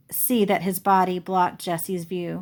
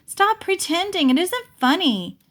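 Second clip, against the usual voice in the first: higher, tight plea on the verge of crying; near tears; 10 semitones higher than usual. Acted. Jessie begs Grandma to stop pretending, near tears. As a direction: beg her to stop, close to tears. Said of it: "sounding like she was about to cry".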